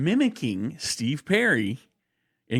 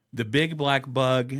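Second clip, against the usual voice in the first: tongue twister drill. Shown as a demonstration. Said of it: "These are vocal exercises".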